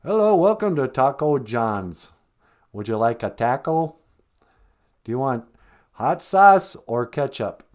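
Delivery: mock Minnesotan taco-stand greeting; Minnesota accent. Minnesota taco worker greeting a customer, Minnesota accent. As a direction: butcher it with a broad Minnesota accent. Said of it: "like, Minnesota accent".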